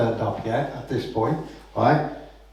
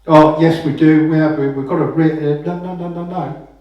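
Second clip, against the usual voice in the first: indignant protest; 2 semitones higher, 4 dB louder than usual. Retold or imitated. Clamper protests in role play.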